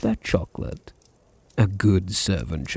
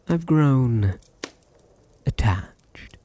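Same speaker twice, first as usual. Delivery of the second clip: whisper; 4 semitones higher, slower than usual. Acted. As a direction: drop to a whisper on the last word. Confiding to captive.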